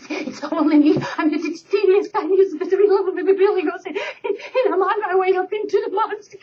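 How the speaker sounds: high little goat voice, laughing through it; tiny goat. Acted. Smallest goat pleading with the troll, high and giggly.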